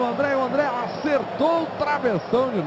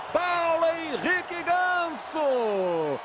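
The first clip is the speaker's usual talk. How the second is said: slow, high, drawn-out scorer's name; excited name call; 5 semitones higher, much slower than usual. Real, not acted. Naming the scorer after goal.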